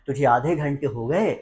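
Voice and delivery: quick, mildly exasperated nagging; scolding mother. Acted. Mother to son after half an hour's wait, nagging. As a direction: rattle off a mom's impatient complaint. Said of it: "So mummy ने कहा".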